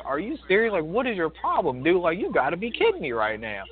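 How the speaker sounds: a lightly voiced stunned onlooker; incredulous older couple. An older couple watching the rude customer, in disbelief. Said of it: "they have the same look on their face, like".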